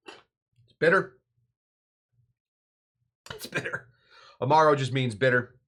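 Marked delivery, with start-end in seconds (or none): 0.1-1.2 slow, loud, stretched-out bitter; drawn-out verdict. Acted. Host tasting Amaro, slow and loud drawn-out verdict. 3.3-3.9 a breathy whispered aside, no voice. Acted. Host tasting Amaro, repeating it in a whisper.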